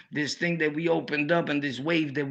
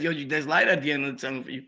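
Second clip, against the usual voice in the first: rattled-off cliché; 2 semitones lower, faster than usual. Retold or imitated. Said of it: "the same line that everybody says".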